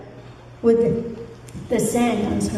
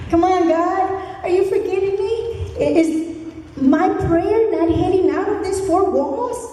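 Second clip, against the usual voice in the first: mock impatient prayer; 4 semitones higher than usual. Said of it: "Sometimes we say".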